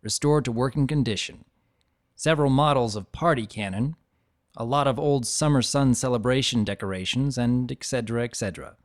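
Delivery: unhurried first-person storyteller reading; reading an old dragon's memories aloud, gently; story narration. A narrator's reading. Narrator reads Spike's memoir to listeners, steady storytelling.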